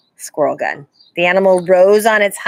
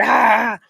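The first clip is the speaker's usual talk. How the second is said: mild roar; 4 semitones higher, 3 dB louder than usual. A narrator's reading.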